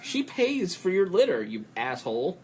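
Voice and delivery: high-pitched, incredulous telling-off; indignant scolding. Retold or imitated. Host scolds the cat for scratching a patron, mock indignant. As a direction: scold with mock outrage, dropping on the final insult.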